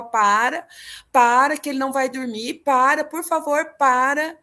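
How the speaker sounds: loud, urgent begging to stop; desperate pleading. Retold or imitated. Mother begging her husband to stop scaring the baby, loud desperate plea. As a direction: plead with him, voice rising and pressing.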